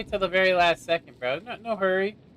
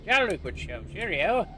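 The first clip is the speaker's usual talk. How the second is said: mock posh British. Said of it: "some guy from Britain watching".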